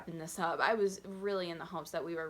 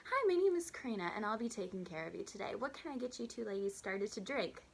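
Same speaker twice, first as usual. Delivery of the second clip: sugary server voice; 2 semitones higher than usual. Retold or imitated. Waitress greeting two rude customers, sugary sweet. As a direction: play the overly chirpy waitress. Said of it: "Super sweet, super annoyingly, like, positive".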